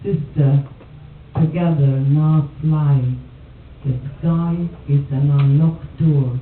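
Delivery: measured poem reading with pauses between phrases. Acted. Poet reads Carol's factory fire poem to an audience, measured recital. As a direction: recite it line by line, letting each phrase stand.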